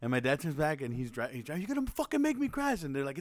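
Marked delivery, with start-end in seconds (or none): 1.6-2.8 high, strained scolding without extra volume; mock angry dad. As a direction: retell a stressed driver snapping. Acting dad yelling while driving.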